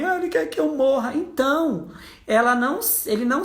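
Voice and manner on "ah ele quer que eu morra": hurt mother. Retold or imitated. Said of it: "Qual é a palavra que mais te machuca, mãe?".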